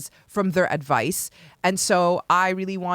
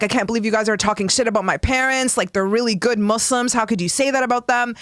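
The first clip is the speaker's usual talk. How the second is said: indignant; 4 semitones higher, faster than usual. Retold or imitated. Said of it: "I was so mad".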